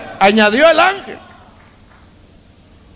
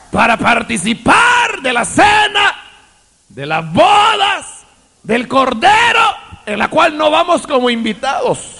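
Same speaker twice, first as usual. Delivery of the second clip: preaching at full force. Real, not acted. Preacher proclaiming the Lamb's wedding to the church, full force. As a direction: proclaim it to the congregation.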